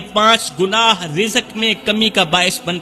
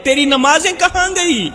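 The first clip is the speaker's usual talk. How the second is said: God questioning His servant; 5 semitones higher than usual. Acted. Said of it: "جب اللہ کہے گا".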